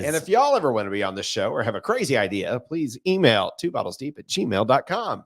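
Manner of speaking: lightly put-on radio host sign-off. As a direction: read it out like a radio announcer, slowing for the address. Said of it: "Just wanted to use my radio voice".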